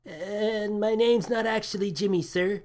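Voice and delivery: put-on apologetic, nervous young crewman; timid crewman. A narrator's reading. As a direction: crewman correcting his captain, meekly.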